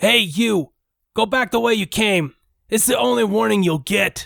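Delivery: rough, harsh, high-pitched dwarf woman's voice. A voice calls from the shadows of the pillar, warning you back: harsh female dwarf voice. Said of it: "a harsh voice calls from the shadows".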